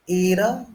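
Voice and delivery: Ita with a tapped T, pitched high; Ita, T flapped between the vowels; American tapped T. Shown as a demonstration. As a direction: say Ita with the T like a quick R. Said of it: "they use it like an R".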